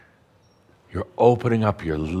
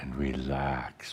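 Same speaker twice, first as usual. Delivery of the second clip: slow breathy whisper; whispered relax; 5 semitones lower, 10 dB quieter, slower than usual. Acted. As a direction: let it fall to a whisper, slowly. Guided breathing, calls to relax.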